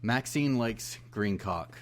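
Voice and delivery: slow, deliberate haiku reading; poem recitation. Acted. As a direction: recite each line slowly like a poem. Reciting haiku after drum roll.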